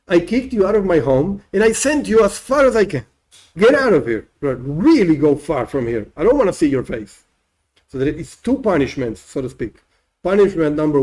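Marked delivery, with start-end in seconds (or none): 3.6-7.2 stern expulsion. Acted. God angrily expelling man.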